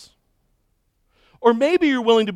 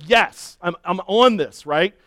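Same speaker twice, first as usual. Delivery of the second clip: urging runners on; 4 dB louder than usual. Retold or imitated. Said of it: "I'm, I'm like".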